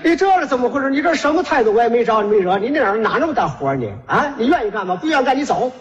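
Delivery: acted indignant customer taking the clerk to task; indignant scolding. (假装气愤地质问)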